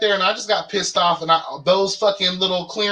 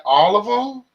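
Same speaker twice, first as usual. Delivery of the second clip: a higher, stunned question; disbelief; 4 semitones higher than usual. Retold or imitated. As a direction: ask it like you can't believe it. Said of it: "I was like".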